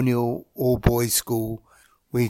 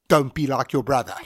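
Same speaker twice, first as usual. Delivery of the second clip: laughing through quote. Retold or imitated. Retelling teacher's punchline.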